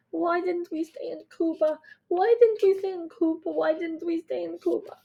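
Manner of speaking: understated despairing refrain; lament. A narrator's reading. Mother repeats her regret in the ambulance, mild grieving lament. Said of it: "Mommy repeat over and over".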